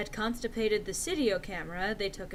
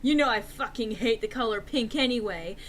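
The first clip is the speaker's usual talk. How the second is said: louder rude snapping rant; snapped; 3 semitones higher, 4 dB louder than usual. Acted. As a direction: spit it out with contempt. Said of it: "I snapped".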